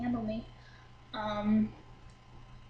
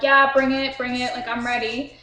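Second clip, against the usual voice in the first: loud cocky dare; daring shout; 9 dB louder than usual. Retold or imitated. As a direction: bring it on, yelled back. She answers the threat, daring them.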